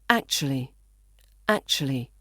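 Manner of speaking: "actually" quick and reduced to ac-chuh-lee; fast reduced pronunciation. Shown as a demonstration. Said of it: "when we say it fast, we say".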